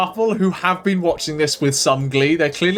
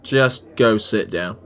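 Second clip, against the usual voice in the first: gruff barman; 9 semitones lower than usual. Acted. Barman voice, low slow.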